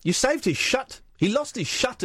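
mock New Zealand accent. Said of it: "It sounds like they're saying, "Shut".

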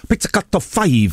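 put-on lightly Japanese-accented band name; a touch of Japanese accent on the band name; mild Japanese accent. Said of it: "I'm gonna do the accent".

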